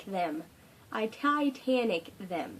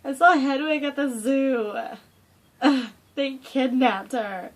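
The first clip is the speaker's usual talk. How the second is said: excited; 3 semitones higher, 8 dB louder than usual. Real, not acted. Excited fangirl news opener.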